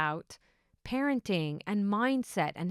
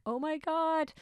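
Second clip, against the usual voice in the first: high mock scream at normal volume; retelling a thrilled outburst, high-pitched; retold excited scream; 10 semitones higher, slower than usual. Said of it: "scream my lungs out".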